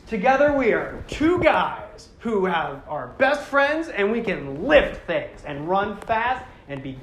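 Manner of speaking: slow, drawn-out meathead bro; dude bro. Retold or imitated. Imitating the big rock-lifting bro Toa, very slow and dumb. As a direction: play it as a proud, slow-witted gym bro. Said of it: "big Chadley dude bros that are just like".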